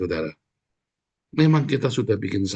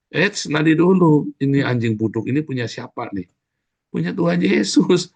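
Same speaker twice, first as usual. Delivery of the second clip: acted warning check; 5 semitones higher, 4 dB louder than usual. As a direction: act out stopping short to ask whose it is. Acts out someone checking the owner. (peringatan yang diperagakan, ditekankan)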